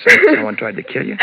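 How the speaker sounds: sharp high alarmed question; shocked. Acted. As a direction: gasp it out in disbelief. Shocked at attempted murder.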